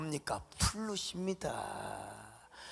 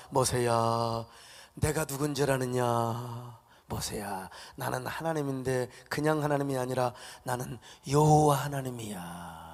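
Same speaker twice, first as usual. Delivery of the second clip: lower, solemn voice of God; God answering Moses; 4 semitones lower, 3 dB quieter than usual. Retold or imitated. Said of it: "뭐라고 대답한 줄 아십니까". (모세에게 답하는 하나님, 낮고 엄숙한 목소리)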